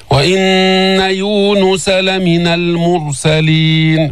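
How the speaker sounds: slow, sustained tajweed recitation; Quran recitation. Shown as a demonstration. Teacher recites the verse for learners, slow recitation. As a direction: hold the hums and long vowels.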